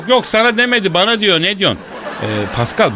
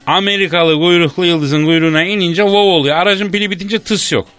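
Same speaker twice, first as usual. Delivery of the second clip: mildly worked-up comic tirade; irritated rant. Acted. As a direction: grumble with a touch of exasperation. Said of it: "Kızıyorum ben bazen". (hafif sinirli, söylenir gibi)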